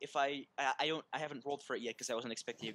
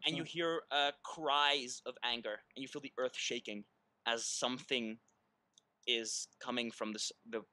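game master narration. Acted. Game master sets the scene.

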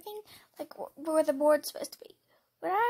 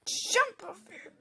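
laugh-crying; 5 semitones higher, slower than usual. Real, not acted. Laughing through fear.

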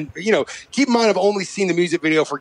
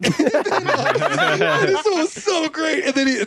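ordinary talk, nothing marked

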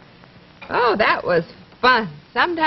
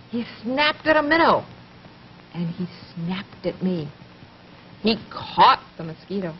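put-on lively rhythmic poem reading to a small child; poem for children; 2 semitones lower than usual. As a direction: read it like a nursery rhyme, bouncy and clear.

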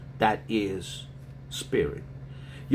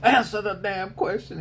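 barked order; 10 semitones higher than usual. Retold or imitated. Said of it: "I was like".

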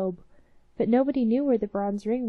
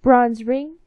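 commanding; 2 semitones higher, 9 dB louder than usual. Acted. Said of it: "commanded the young man".

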